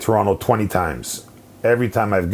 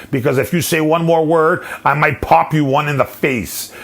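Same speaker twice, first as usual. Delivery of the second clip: higher-pitched, worked-up telling-off; indignant tirade, pitched up but not shouted; retold rattled rant; 4 semitones higher than usual. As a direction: re-enact chewing out a fellow fan. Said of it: "That's how rattled I was".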